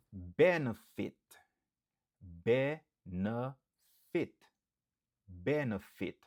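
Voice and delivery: Benefit with BEN stressed; stress first syllable. Shown as a demonstration. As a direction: hit BEN, let the rest fall. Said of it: "N ap aksantye sou premye silab lan".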